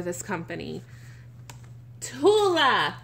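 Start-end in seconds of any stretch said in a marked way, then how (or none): 2.0-3.0 doting coo. Real, not acted. Cooing to the reborn doll.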